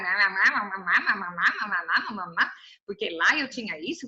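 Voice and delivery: mock crying child; mock baby whine. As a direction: whimper like a baby for mama. Mimicking whining Israelites.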